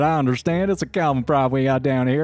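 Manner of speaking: southern housewife, lilting up high at the end; Peggy. Acted. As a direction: sympathetic Southern hostess. Voices the wife character.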